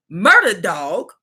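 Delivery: slow amused drawl through a laugh. Real, not acted. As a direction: savor the name, amused. Laughing, slowly repeating the name.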